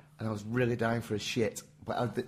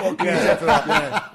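laughing; 7 semitones higher, 9 dB louder than usual. Real, not acted. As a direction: laugh through the words in amazement. Repeats it, still laughing.

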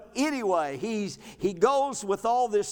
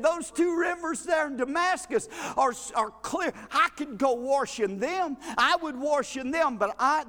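the proud general refusing the muddy river; indignant refusal; 3 semitones higher than usual. Retold or imitated. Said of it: "he went away in a rage".

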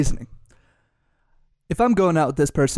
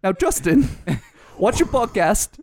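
badly faked British accent; slow, mock-stern British accent; 2 semitones higher, slower than usual. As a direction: attempt a British boss voice. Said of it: "You're so bad at accents".

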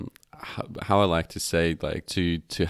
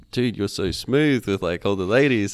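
higher, hammed-up admiring bro voice; mock-impressed friend, pitched up; mock flattering buddy; 3 semitones higher, 5 dB louder than usual. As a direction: play the impressed mate teasing him. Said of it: "they're just like".

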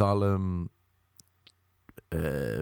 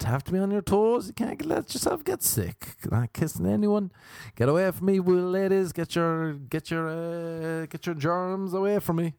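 high, squeaky germ-phobic pleading; high squeaky mock panic; 7 semitones higher than usual. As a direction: shoo everyone away in mock alarm.

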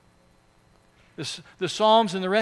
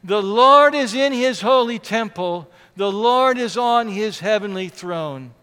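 firm declaration; 6 dB louder than usual. Shown as a demonstration. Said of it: "Will you say that with me?".

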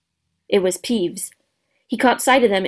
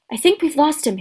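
slightly out of breath, pitched higher; panting; 6 semitones higher than usual. Acted. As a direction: pant it lightly after running. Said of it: "Harry panted".

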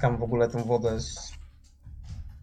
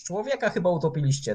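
higher shouted call; shouting to the barge; 6 semitones higher than usual. Acted. Sailor shouts to the barge crew, raised shouting call. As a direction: call it across the water. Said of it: "krzyczę do tych z barki".

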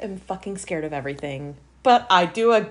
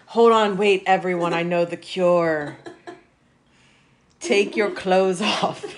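louder, laughing mock proclamation; mock announcement; 4 dB louder, slower than usual. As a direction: announce the absurd cure through laughter. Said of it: "and now it's like".

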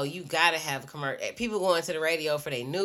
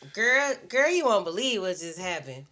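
put-on high, loud gossiping girlfriend voice; hushed phone gossip; 5 semitones higher, 4 dB louder than usual. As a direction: dish the news like a shocked friend on the phone.

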